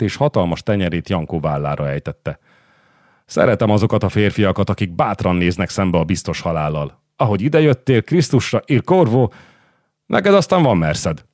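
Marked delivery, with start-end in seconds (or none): 3.3-11.3 boastful condottiere. Acted. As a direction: play a swaggering war captain, lightly acted. Voices Carmagnola in a story.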